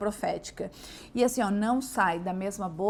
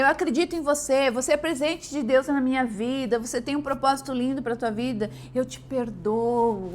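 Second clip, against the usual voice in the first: affirming words; 4 dB louder than usual. Shown as a demonstration. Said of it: "falar, né".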